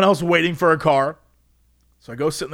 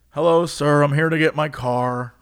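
mock-defeated, resigned greeting; worn-down polite surrender; 3 semitones lower than usual. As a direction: say it like you've already given up. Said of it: "I have never been so defeated".

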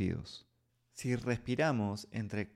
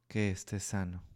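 softer, breathed repeat; 6 dB quieter than usual. Shown as a demonstration. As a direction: breathe the phrase out softly. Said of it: "Y respírala".

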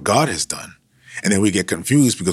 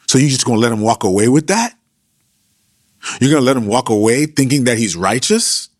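a touch of street slang, lifted and louder; hood-style Elihu, mildly raised; hood version of Elihu; 3 semitones higher, 3 dB louder than usual. Retold or imitated. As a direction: scold the friends like a guy from the block. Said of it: "I'm just giving you the hood version".

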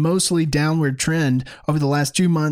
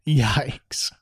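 breathy hushed repeat of yikes; whispered yikes; 3 semitones lower than usual. Real, not acted. Host whispering to viewers in dismay, whispered. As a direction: drop to a whisper in disbelief.

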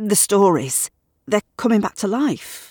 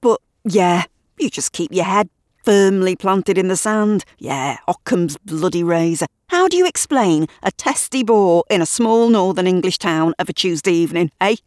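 louder and higher, indignant; heated rant; 4 semitones higher, 4 dB louder than usual. Acted. Gavin ranting at Shirley about the boar, indignant. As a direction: hammer every point home.

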